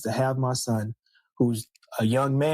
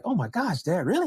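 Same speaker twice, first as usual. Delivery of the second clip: higher-pitched incredulous son; acted disbelief; 6 semitones higher than usual. Son reacting to dad's secret in the joke, incredulous. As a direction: protest to dad in mild mock dismay.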